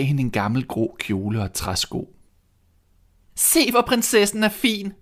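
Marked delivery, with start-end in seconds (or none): 3.3-4.9 high, jeering and loud; mock her as a fine princess; mocking stepsister. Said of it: "råbte de leende". (høj, hånende og højlydt)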